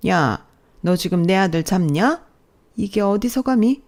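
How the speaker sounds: mildly outraged mother-in-law; indignant rebuke. Acted. Mother-in-law defends her son, indignant. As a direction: put her in her place.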